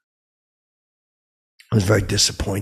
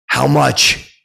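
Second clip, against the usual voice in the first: defiant retort; 4 semitones higher, 6 dB louder than usual. Retold or imitated. Defiant comeback.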